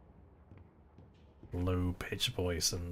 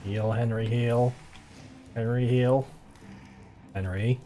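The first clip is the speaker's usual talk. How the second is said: urgent pleading; 4 semitones higher than usual. Real, not acted. Begging character to heal mid-fight.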